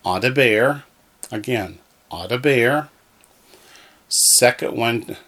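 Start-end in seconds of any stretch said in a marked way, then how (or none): 0.0-0.8 "Adaber" with the weight on BER; accent on last syllable. Shown as a demonstration. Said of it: "accents on the last syllable". 2.1-2.9 "Adaber" with the weight on BER; accent on last syllable. Shown as a demonstration. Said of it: "accents on the last syllable".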